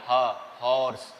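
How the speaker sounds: "ह, हॉर्स" with a breathy h first; teacher stresses the h in "हॉर्स"; sounded h. Shown as a demonstration. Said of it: "इसमें एच की sound आ रही है".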